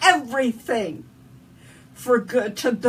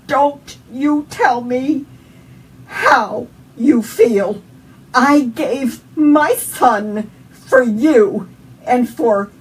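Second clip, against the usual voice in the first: God yelling back; 2 semitones higher, 9 dB louder, slower than usual. Retold or imitated. God rebuking the grieving mother, loud and slow. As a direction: thunder each word down slowly. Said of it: "God yelled back at me".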